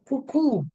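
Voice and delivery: cuckoo with the weight on KOO; stress on last syllable. Shown as a demonstration. Teacher giving a double O example, stress on the end of cuckoo. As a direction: hit the second syllable of cuckoo. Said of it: "the rule remains the same".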